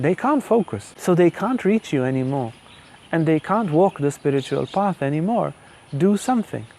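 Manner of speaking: lekko narzekający ton żony, wyżej pod koniec; mock-complain to the husband, rising as she lists; complaining wife. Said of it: "she starts complaining".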